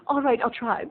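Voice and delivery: high giggle into shy agreement; coy giggle. Retold or imitated. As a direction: giggle and give in coyly. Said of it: "And she's like".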